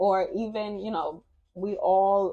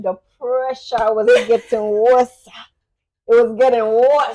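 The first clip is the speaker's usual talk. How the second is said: put-on African accent; 2 semitones higher, 7 dB louder than usual. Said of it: "my version of African accent".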